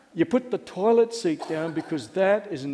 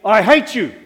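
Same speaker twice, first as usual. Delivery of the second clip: loud mock child's outburst; hammed-up angry yell; imitated tantrum; 3 semitones higher, 10 dB louder than usual. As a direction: shout it like a child mid-tantrum. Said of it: "in the middle of a tantrum".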